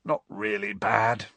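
drowsy, half yawning; tired mumble after waking; sleepy. Acted. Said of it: "yawning and rubbing his eyes".

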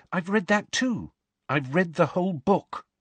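high, insistent schoolgirl voice; clear, carrying voice. A narrator's reading. Pupil tells teacher she has read it all, clear carrying voice. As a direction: speak up, plainly and keenly. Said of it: "speaking in a clear, carrying voice".

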